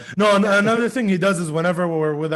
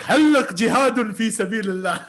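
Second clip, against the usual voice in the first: brother's mock reply; 5 semitones higher, 5 dB louder, faster than usual. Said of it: "He's like".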